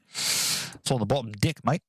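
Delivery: put-on slow, drawled New Zealand accent with deck near dick; lightly put-on New Zealand accent, bottom deck sliding up; mock New Zealand accent. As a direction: Kiwi tradie telling you where it is. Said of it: "the way New Zealanders say deck".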